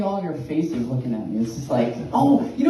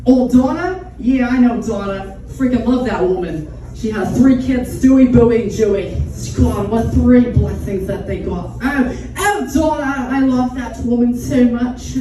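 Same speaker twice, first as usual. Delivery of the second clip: loud, higher-pitched woman gushing about her friend; Linda Belcher; 4 semitones higher, 6 dB louder than usual. Acted. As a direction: play a tipsy, doting fan with an odd accent. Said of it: "sounds like Linda Belcher in a way".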